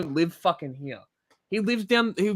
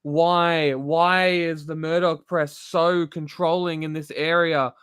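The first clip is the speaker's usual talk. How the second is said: mock whinging. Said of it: "You rather whinge and say".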